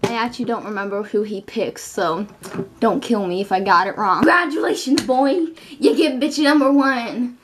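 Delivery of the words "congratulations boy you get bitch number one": bright, high host voice; gushing congratulations. Acted. Host congratulating the boy on his pick, high and bright. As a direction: crown the winner with a showman's flourish.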